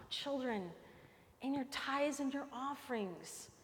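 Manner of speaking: put-on soft, gentle father pleading with children; loving father voice. Shown as a demonstration. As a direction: speak it softly, in love. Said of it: "Do you hear the difference in how I said it the second time".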